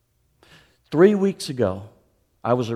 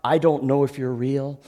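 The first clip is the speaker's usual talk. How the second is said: desperate prayer. Retold or imitated. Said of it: "I said".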